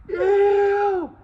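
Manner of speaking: high, loud mock girl's squeal of disgust; disgusted shriek. Girl spots poop on shoe.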